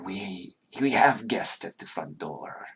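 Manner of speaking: a servant failing to sound noble; fake cultured voice. Servant behind the door, quietly faking a cultured voice. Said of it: "cultured voice, but, like, fake cultured".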